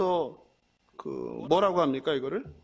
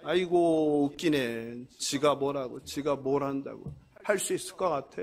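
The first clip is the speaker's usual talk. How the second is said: low, soft dismissive sneer; mocking scoff; 7 semitones lower, 3 dB quieter than usual. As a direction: scoff quietly as if they're not worth the effort. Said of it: "그리고 비웃는 거죠". (낮고 작게 비웃는 말투)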